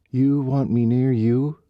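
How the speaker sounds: slow, high mock disbelief; sarcastic. A narrator's reading. Riley mocking Colt's words back at him, sarcastic. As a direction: throw his words back at him, dripping scorn. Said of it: "dripping with sarcasm".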